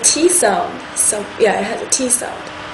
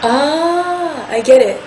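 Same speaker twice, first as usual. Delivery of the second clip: realizing ah; 4 semitones higher, slower than usual. Shown as a demonstration. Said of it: "It's like saying".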